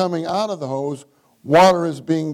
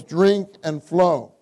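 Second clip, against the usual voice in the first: DRINK and FLOW each drawn out slowly; emphatic stress; slower than usual. Real, not acted. Preacher stressing two key words to the congregation, slow emphasis on "drink" and "flow". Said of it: "I want to emphasize these two words".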